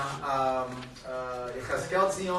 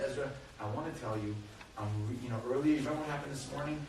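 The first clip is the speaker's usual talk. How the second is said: gentle apology; 3 semitones lower, 7 dB quieter, faster than usual. Retold or imitated. Father gently begins apology to son.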